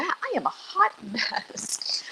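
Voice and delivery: slow, laughing through the words; laughing at herself. Real, not acted. Cook laughs at spilling oil on stream.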